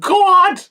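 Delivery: "God" stretched into many syllables, very high and loud; stretched New York "God". Retold or imitated. Mocking the wife's accent, "God" stretched and shrieked. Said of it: "five syllables out of the word God".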